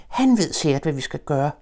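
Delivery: high, eager little voice; hopeful Piglet. Acted. Piglet tells Pooh Christopher will help, high and hopeful. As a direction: pin all hopes on him.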